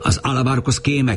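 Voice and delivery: high, ringing cry of "kéme"; shouted accusation. A narrator's reading. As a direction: yell it out as an accusation. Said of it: "kiáltották".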